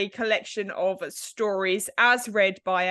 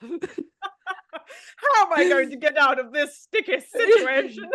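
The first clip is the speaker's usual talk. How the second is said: higher, laughing mock British narrator; 5 semitones higher, 3 dB louder than usual. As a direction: lightly send up a British storyteller. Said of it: "mocking the British narrator".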